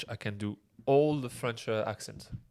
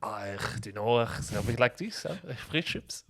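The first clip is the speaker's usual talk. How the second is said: guttural mock Belgian French; Belgian accent. Shown as a demonstration. Imitating Belgians talking of fries, Belgian accent. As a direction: put on a throaty Belgian accent. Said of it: "And Belgium is like".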